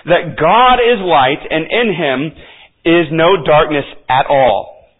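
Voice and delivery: slow, weighty stress on God and no; emphatic reading. Shown as a demonstration. Preacher reading the verse to his congregation, slow and emphatic. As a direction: lean hard on "God" and on "no", drawing the phrase out. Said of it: "we can even feel the emphasis behind it".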